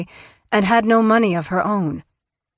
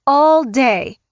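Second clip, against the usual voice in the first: raised, louder disbelieving echo of "All day"; incredulous repeat; 6 semitones higher, 5 dB louder than usual. A narrator's reading. Mother repeating the son-in-law's words, incredulous and raised. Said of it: "she repeated".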